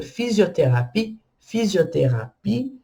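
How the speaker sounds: fisioterapie with the y as I, stress at the end; French fisioterapie. Shown as a demonstration. Teacher models the French word for physiotherapy. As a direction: say fisioterapie, final ie as I. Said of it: "em francês fica".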